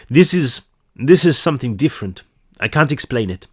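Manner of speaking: lightly attempted Swedish accent. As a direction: try a not very convincing Swedish accent. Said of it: "supposed to be like a Swedish accent".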